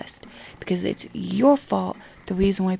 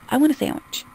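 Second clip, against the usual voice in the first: higher, quick mimicry of a customer; mocking raised voice; 5 semitones higher than usual. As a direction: imitate the wrong way to order. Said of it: "Don't just go".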